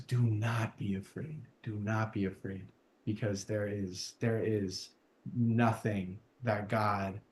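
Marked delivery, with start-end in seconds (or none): 0.1-2.7 calm reassurance. Real, not acted. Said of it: "breath of God in my lungs".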